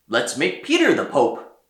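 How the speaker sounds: a cardinal cries out his idea; shout. A narrator's reading. Cardinal shouts his proposal to the quarrelling others, loud call. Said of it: "Then one of them shouted".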